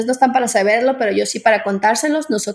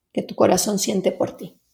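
soft unvoiced whisper; 2 semitones lower, 5 dB quieter than usual. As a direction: breathe the words out gently. Soft close of meditation.

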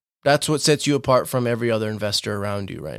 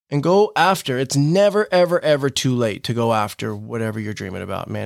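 booming motivational speech; 3 semitones higher than usual. Real, not acted. Pep talk urging listener to act.

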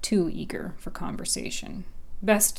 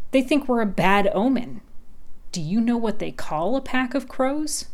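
higher, louder crow, leaning in to tell; gossipy crow; 6 semitones higher, 4 dB louder than usual. Acted. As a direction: share it like juicy gossip. Crow character voice.

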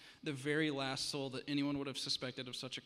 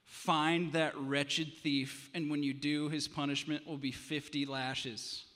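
louder, very slow and seething; enraged; 5 dB louder, slower than usual. Acted. Enraged king orders the thief found, slow and seething. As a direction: drag out "wretched thief" in rage. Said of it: "The king was enraged".

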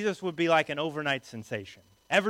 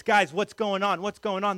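raised, mildly urgent asking; urgent questioning; 4 semitones higher, 4 dB louder than usual. Acted. Blind beggar tugging on jackets for news, urgent questioning. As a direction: press bystanders for an answer, pitched up.

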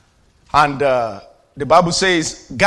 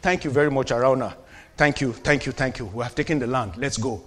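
mock casual thanks; 4 semitones lower, 5 dB quieter than usual. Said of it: "he would have simply said".

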